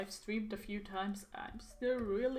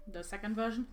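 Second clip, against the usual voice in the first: talking while chewing gum; words around a wad of gum. Real, not acted. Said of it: "so sorry for the gum sounds".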